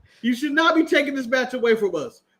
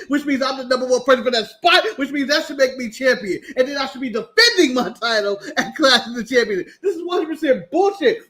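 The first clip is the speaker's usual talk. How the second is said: mock angry rant. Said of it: "My reaction is".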